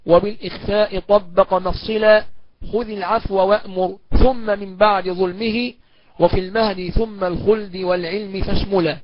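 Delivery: slow chanted recital of the verse lines; poem recitation. Acted. Teacher reciting the poem's verses before explaining.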